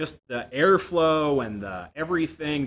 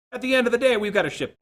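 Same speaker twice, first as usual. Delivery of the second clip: much higher, louder, sure-of-itself closer; mock platitude; 10 semitones higher, 6 dB louder, faster than usual. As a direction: deliver the empty line as final wisdom. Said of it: "say something that they can't disagree with".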